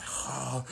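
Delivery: imitated breathy "ha" noises; crazy noises. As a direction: mimic strange noises heard through a bathroom door. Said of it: "making all these crazy noises".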